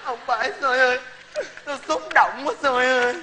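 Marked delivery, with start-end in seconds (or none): 1.6-3.1 mock crying. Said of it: "mày khóc âm thanh hay vậy đó hả".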